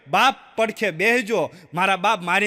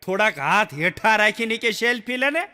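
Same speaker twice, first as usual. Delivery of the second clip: retold shout. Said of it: "સાંદા મામાએ રાડ નાખી".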